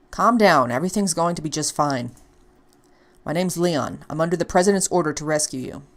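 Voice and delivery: a hint of a steady agent reassuring; lightly voiced Leon, calm. Leon reassuring the frightened Ashley, calm. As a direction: talk her down firmly.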